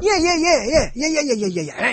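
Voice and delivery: high, rapid-fire ape chatter; playful monkey-like babble, dropping at the end; gelada imitation. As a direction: rattle off yeahs like a chattering primate. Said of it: "now I sound like a Galata".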